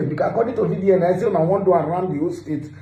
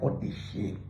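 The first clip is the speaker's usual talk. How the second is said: breathy whispered repeat, much softer; whispered aside; 10 semitones lower, 13 dB quieter than usual. Real, not acted. Vlogger mutters scorn at nafdac in a whisper.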